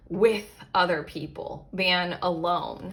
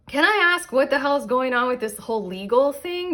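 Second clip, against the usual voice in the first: blurted-out demand; 6 semitones higher, 3 dB louder than usual. Real, not acted. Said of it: "I don't know why I said it like that".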